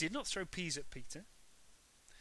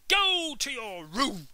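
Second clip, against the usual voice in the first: high, much louder furious mum; furious shout; 9 semitones higher, 14 dB louder than usual. A narrator's reading. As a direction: yell it, slowing on the last words. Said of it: "she shouted".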